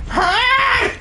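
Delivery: put-on old person laughing. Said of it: "that was meant to be an old person laughing voice".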